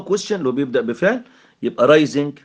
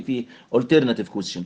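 normal talking voice

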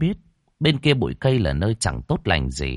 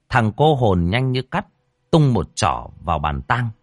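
ordinary delivery

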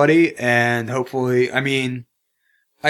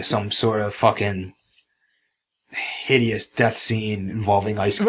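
whispering; 3 semitones lower than usual. Pretend. Spooky pitch for a death scene.

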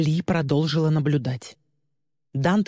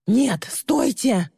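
high, slow desperate shriek; 9 semitones higher, much slower than usual. Acted. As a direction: scream it at the police. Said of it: "завизжала Ли".

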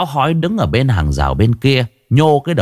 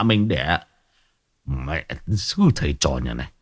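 stunned muttering; 3 semitones lower, 3 dB quieter than usual. Acted. Old man stunned, muttering to himself.

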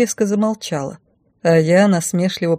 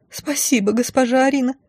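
relieved sigh; 7 semitones higher than usual. Acted. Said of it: "с облегчением выдохнула она".

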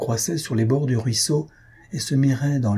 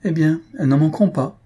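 higher, louder burst of wild glee; feverish gaiety; 5 semitones higher, 4 dB louder than usual. A narrator's reading. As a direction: fling it out with nervous mad cheer. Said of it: "accès de folle gaieté".

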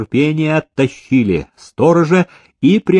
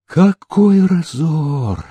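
very slow, stricken exclamation; gasping dismay; 5 semitones higher, much slower than usual. Acted. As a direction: gasp it out in shock at the waste. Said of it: "ахнул".

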